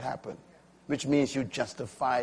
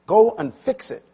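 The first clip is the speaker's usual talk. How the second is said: mock shouted order, somewhat raised; retold shout; 7 semitones higher, 6 dB louder than usual. Chaplain ordering a young director, retold shout. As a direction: imitate a boss's sharp order. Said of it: "he shouted at me".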